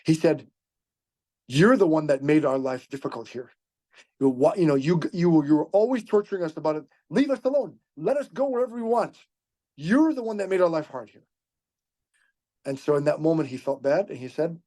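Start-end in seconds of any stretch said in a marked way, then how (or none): 1.5-11.2 a mild mock lashing out at her persecutor. Woman lashing out at Umar for tormenting them, mildly heated. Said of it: "she lashed out".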